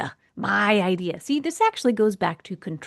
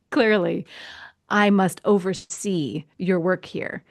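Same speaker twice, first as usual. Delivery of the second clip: mock superior; 3 semitones lower than usual. Mocking her own superior attitude.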